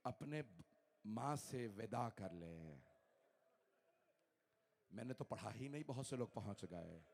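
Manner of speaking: low hushed mourning recital; hushed grief. Real, not acted. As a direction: drop to a grieving near-hush.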